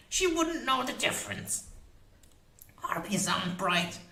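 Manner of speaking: high, fierce crone voice; witch voice. A narrator's reading. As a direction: boast like a proud old witch.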